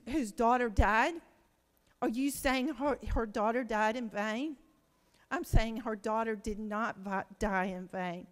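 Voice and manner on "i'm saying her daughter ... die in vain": fighting back tears mid-sentence; choked up. Real, not acted. Answering the grieving mother's question, choked up. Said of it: "And I'm sorry, I get so emotional".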